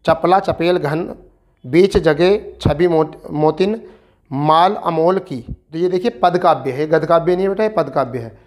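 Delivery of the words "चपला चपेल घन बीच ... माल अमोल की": slow, measured recital of the verse; poem recitation. Acted. Teacher reciting a Tulsidas verse to students, slow and measured. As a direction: savour each phrase like a poet reading aloud.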